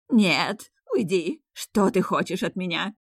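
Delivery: alarmed queen, loud first cry; frightened. A narrator's reading. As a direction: ward off a ghost in terror. Queen terrified by the supposed ghost.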